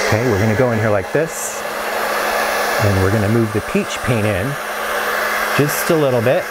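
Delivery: talking over a running blow dryer; over hair dryer. Real, not acted. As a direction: speak up over dryer noise. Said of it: "let me turn this off again".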